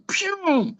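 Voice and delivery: high cartoon pew; zoom sound effect. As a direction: zip off like the road runner. Road runner sound effect.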